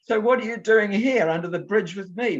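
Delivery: loud, very high Cockney imitation; Cockney accent. Old man questions boy under the bridge, loud high Cockney. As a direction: ask it in a comic high Cockney voice. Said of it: "lovely Cockney sort of accent".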